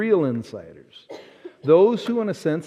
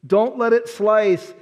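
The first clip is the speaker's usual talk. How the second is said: slow, higher, begging; pleading prayer; 3 semitones higher, slower than usual. Retold or imitated. Boy pleading over his drive, slow and higher. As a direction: beg the ball not to slice. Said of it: "and I said".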